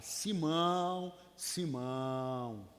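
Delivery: slow, drawn-out "Simão, Simão", falling low; Jesus calling. Retold or imitated. Jesus warning Peter, slow and drawn out. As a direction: call "Simão" slowly, warning. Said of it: "Quando Jesus fala".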